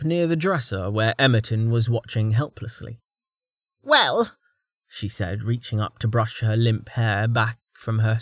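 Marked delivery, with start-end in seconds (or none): 3.8-4.4 put-on old woman voice. Old woman drawls a reply.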